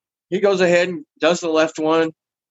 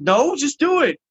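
retold impatience; 9 semitones higher, slower than usual. Brushing off numbing, impatient order.

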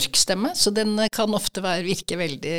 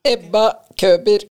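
louder, chin tucked in and the head pushed back; head pressed back; 3 semitones higher, 6 dB louder than usual. Shown as a demonstration. Voice exercise with the head pressed back, louder squeezed voice. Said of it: "Hodet bakover".

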